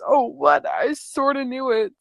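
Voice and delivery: freaking out. Acted. Chat member reacts to the big reveal, mildly freaking out. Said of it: "One's freaking out".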